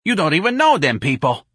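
high-pitched scolding outburst; screamed. Acted. Santa rebuking her friend, mild scream. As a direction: scold loudly, not a full scream. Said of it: "Santa screamed".

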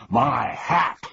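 indignant shout. Acted. Humbug shouting over his knocked-off hat, indignant. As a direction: bellow about the hat. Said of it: "shouted the bug".

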